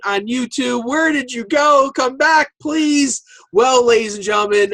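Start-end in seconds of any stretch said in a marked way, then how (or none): 0.9-3.2 pleading fans. Retold or imitated. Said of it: "People were crying on, on YouTube".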